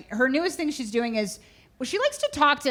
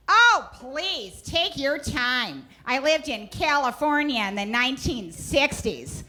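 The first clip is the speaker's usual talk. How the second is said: drawn-out, higher sassy opener; sassy mother; 3 semitones higher, slower than usual. Retold or imitated. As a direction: play a sassy mom showing she's worldly, slowly. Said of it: "these kinda sassy moments".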